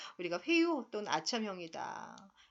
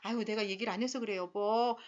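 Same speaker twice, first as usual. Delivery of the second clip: placating mother, fast. Retold or imitated. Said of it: "엄마, 아빠의 역할극".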